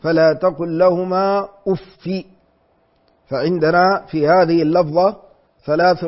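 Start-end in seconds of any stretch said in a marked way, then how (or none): 0.0-2.2 أف read as uffi, kasra without nunation; أف with kasra, no tanwin. Shown as a demonstration. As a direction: end أف on uffi. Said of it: "بكسر من غير تنوين".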